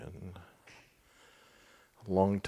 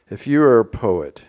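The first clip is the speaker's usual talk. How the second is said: passage reading; 8 dB louder than usual. Real, not acted. Reads a passage aloud.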